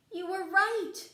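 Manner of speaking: high, loud delighted exclaim; excited. Acted. Toad telling Frog the rain stopped, excited. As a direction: burst out with joy.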